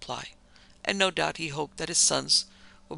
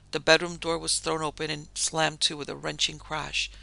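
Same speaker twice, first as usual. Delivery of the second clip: ordinary delivery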